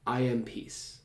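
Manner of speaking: "I" leads, "am peace" falls away softly; stress on I. Shown as a demonstration. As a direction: put the weight on "I". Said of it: "change the emphasis of it".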